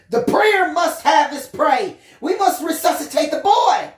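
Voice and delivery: alien nurse lisping. Acted. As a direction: alien in a nurse mask mangling the S sounds. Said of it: "it's pretty impossible to say all the S sounds".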